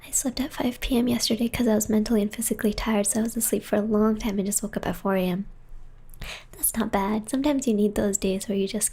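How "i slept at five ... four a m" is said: whispering. Real, not acted. Whispering ASMR stream.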